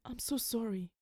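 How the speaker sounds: soft, hushed condolence; whispered. A narrator's reading. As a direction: murmur it gently, just for one listener. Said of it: "he whispered".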